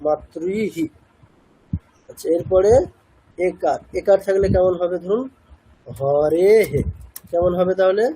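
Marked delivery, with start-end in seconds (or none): 0.1-0.9 "মাতৃহি" closing on a short "হি"; short i ending. Shown as a demonstration. Teacher repeating the exception rule, "মাতৃহি" with short i ending. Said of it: "হ্রস্ব ইকারটাকেই নেব". 6.0-6.8 "হরে হে" echoing the e in a short "হে"; visarga as he. Shown as a demonstration. Teacher showing visarga after e, "হরে হে" ending in echoed হে. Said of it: "একারই হবে".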